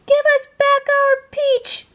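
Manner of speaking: high, loud shrill demand; snatch it back nastily; taunting aunts. A narrator's reading. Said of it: "rang the voices in his head".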